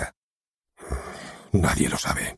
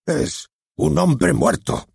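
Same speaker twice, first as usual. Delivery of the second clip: much higher and very slow, drawn-out and solemn; dramatic; 9 semitones higher, much slower than usual. Shown as a demonstration. The director showing how to announce a death, slow and dramatic. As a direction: make the audience shiver, slowly. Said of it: "Sea dramático".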